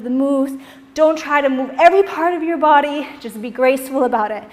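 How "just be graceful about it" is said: ordinary talk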